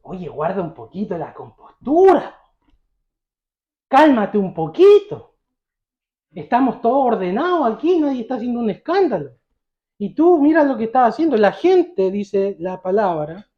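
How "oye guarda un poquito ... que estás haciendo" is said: acted reproof, stressing the last word; mock-scold a noisy beggar for making a scene; indignant scolding.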